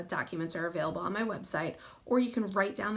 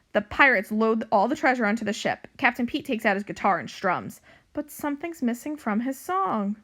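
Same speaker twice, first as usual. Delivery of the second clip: animated storybook narration, louder than chat; story reading to children; 3 semitones higher, 5 dB louder than usual. A narrator's reading. Librarian reading a pirate cat book to young pupils, animated narration. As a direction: read it out clearly for young listeners.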